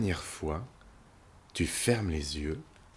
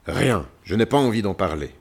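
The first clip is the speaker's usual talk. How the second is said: louder, grumbled refusal; grumbling lion; 6 dB louder than usual. Acted. Lion refuses the visitors' help, grumbling. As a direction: grumble it out, closing the subject.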